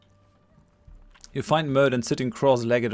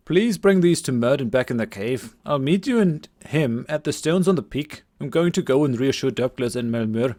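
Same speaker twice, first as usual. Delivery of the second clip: put-on lightly overdone Scottish accent; a young villager's Scottish lilt. Game master voicing Cillian to the party, Scottish accent. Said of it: "my attempted Scottish accent".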